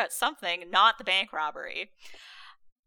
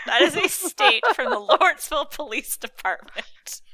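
laughing; 4 semitones higher, 6 dB louder than usual. Real, not acted. Reading tweet, cracking up.

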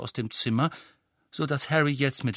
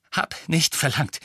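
stammering; 4 semitones higher, 3 dB louder than usual. Acted. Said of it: "stammelte Harry".

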